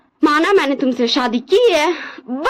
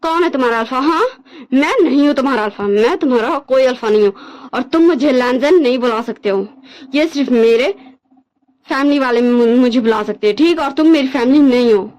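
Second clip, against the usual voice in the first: lower, harder voice, fast at the start; cold anger; 5 semitones lower than usual. Acted. Alpha coldly rejecting his crying husband, stern and dismissive. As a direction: cut him off coldly and firmly.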